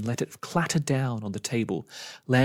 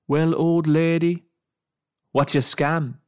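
slow, loud, high sneer; menacing; 5 semitones higher, 6 dB louder than usual. Acted. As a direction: sneer it threateningly. Man threatens the old woman.

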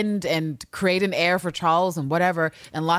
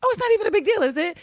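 mock innocent Mariana; faster than usual. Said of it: "to be like".

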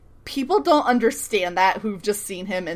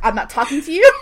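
mock exasperation, louder and higher; exasperated retort; 4 semitones higher, 6 dB louder, faster than usual. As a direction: yell it back, half laughing. The speaker yelling back at unseen Siler.

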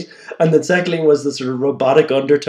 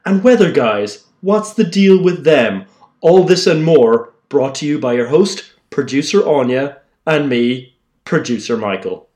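deep serious host voice. Acted. Producer introducing the podcast, deep serious host read. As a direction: sound like a grown-up presenter. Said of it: "you made your voice deeper to try and sound more like a grown-up".

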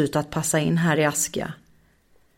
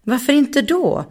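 wondering; 8 semitones higher than usual. Acted. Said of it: "undrade Bonki".

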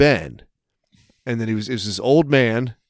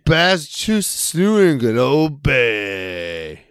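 put-on Boston accent; much slower than usual. Repeating the old man's line.

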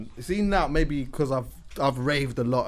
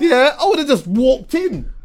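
laughing; 10 semitones higher, 7 dB louder, slower than usual. Real, not acted. Laughing at the story.

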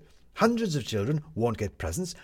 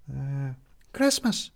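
put-on slow, hesitant child's voice; Midge; 3 semitones higher, much slower than usual. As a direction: feel for the word, slow and unsure. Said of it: "said Midge suddenly".

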